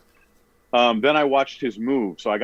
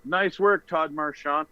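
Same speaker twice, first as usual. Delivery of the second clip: mock shout; 7 semitones higher, 3 dB quieter, slower than usual. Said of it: "I was going to shout".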